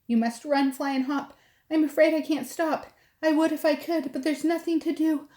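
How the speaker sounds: high, fretful elephant voice; worried elephant. Acted. Elephant voice held.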